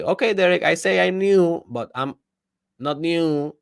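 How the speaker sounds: high, dismissive mock compliance; sarcastic. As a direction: say it like a sarcastic skeptic. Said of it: "between the sarcastical guy that will say".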